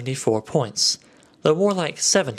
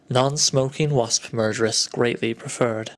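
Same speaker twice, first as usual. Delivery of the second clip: poem reading; slower than usual. Acted.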